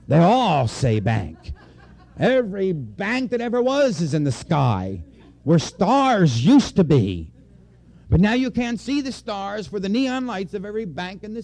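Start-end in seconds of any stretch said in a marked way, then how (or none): 0.1-9.8 laughing. Real, not acted. Joking about bank skyscrapers.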